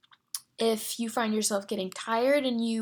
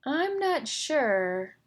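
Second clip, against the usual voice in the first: drawn out very slowly, higher, hesitant; slow, unsure; 5 semitones higher, 3 dB louder, much slower than usual. Shown as a demonstration. Therapist modeling an unsure phrase, slow and hesitant. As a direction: stretch it out as if really unsure. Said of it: "different kinds of inflections".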